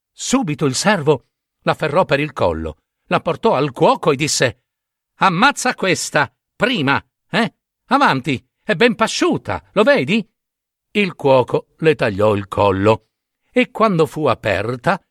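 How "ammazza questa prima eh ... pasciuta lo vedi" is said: higher, pushy urging of the cook; lightly voiced eager servant; urgent servant. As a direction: hurry the cook along, pressing.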